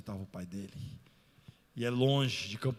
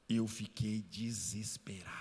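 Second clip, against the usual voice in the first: whisper; 3 semitones lower, slower than usual. Retold or imitated. Pastor recalling his fear.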